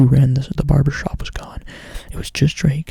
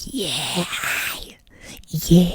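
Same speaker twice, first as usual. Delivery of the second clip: a rapper's weird noise; 4 semitones higher than usual. Retold or imitated. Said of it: "those weird noises a rapper makes".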